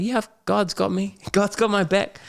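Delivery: high, laughing mock churchy mum; lightly hammed-up devout mum; imitating mum. Son imitating his hopeful mum, high mock voice. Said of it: "She's like".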